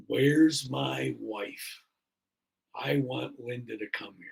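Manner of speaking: slow, deliberate words of a man just waking; slow halting words. Retold or imitated. Patient waking up, asking the nurse for his wife, slow and halting. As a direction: drag out where's, then say the rest evenly. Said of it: "pretty clearly says".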